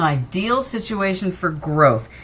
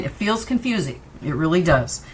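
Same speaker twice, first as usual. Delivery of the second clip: hiccuping. Real, not acted. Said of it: "And I'm hiccuping".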